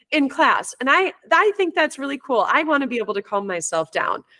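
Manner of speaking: put-on child voice. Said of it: "one of the kids came up and said".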